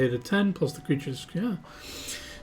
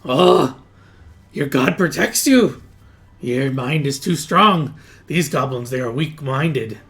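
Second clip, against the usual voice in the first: awed goblin; 3 semitones higher, 5 dB louder than usual. Acted. Goblin answers challenge to read mind.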